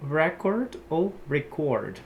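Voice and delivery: REcord then reCORD; noun then verb stress. Shown as a demonstration. Teacher contrasting both stresses of record for students. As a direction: stress first, then second syllable of record. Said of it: "o próximo que a gente vai ter".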